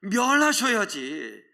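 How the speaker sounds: mock outrage, high and drawn out; lightly hammed-up indignant complaint; retold angry protest. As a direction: protest slowly, stretching each demand. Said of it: "화를 냅니다".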